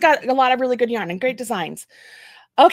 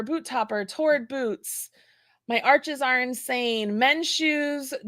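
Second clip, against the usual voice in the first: ordinary talk, nothing marked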